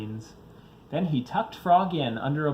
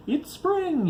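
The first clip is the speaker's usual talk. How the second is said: excited; 4 dB louder than usual. Acted. Bear wakes happily.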